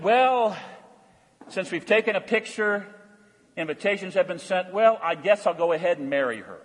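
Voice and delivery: reluctant groom. Retold or imitated. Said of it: "You know what the man said?".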